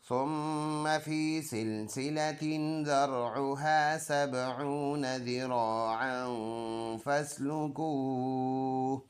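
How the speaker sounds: melodic recitation, last word drawn out slowly; Quran recitation. Shown as a demonstration. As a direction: chant the full verse, stopping on फस्लुकूह with a held ending. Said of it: "full आयत ऐसे पढ़ेंगे". (पूरी आयत तिलावत के अंदाज़ में, फस्लुकूह पर रुककर)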